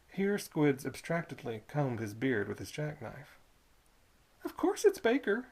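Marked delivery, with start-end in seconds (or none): 4.4-5.5 put-on high, loud old toll keeper; sly old toll keeper coaxing the boy; Squids' voice. Old toll keeper luring a boy in, high and loud.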